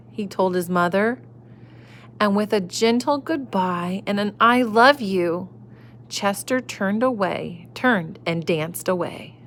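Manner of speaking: gentle storybook reading voice; reading to children. A narrator's reading. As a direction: read it like a bedtime story. Reading picture book to children.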